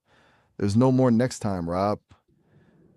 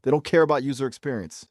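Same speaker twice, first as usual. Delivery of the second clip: higher, insistent rant; with attitude; 4 semitones higher than usual. Real, not acted. Warning the host that the entities don't care, with attitude. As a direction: press each point with attitude. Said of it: "saying that with some attitude".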